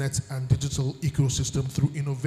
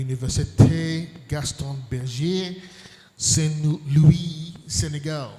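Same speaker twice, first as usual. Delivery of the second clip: French accent; slower than usual. Shown as a demonstration. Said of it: "Was my French accent okay?".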